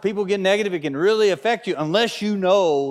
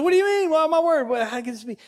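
mock shock; 12 semitones higher, faster than usual. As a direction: play up the outraged innocence. Retelling argument with his wife.

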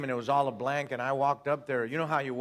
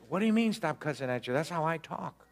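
higher-pitched mock indignation; retold cocky protest; defiant back talk; 4 semitones higher than usual. Acted quarrel, talking back.

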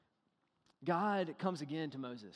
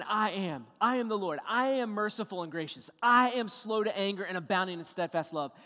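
proclaiming God's voice; 2 semitones higher, 5 dB louder than usual. Retold or imitated. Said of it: "He's saying".

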